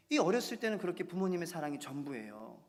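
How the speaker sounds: usual speaking voice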